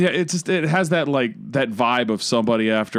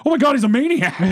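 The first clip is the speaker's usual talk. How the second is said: much higher pitch, imitated alarm; mock shock; 12 semitones higher, 3 dB louder, faster than usual. Husband retelling wife's reaction to Googling, mock shock. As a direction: voice a wife's sudden horrified discovery.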